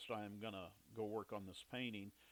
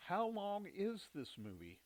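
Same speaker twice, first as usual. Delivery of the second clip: higher, slow incredulous wife voice; imitating wife; 9 semitones higher, slower than usual. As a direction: mimic her weary disbelief at the long movie. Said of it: "And she says".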